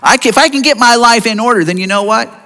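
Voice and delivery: lightly voiced smug bargaining; mock self-righteous. A believer voicing smug prayer bargaining with God. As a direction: act like God owes you. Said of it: "What we're saying is".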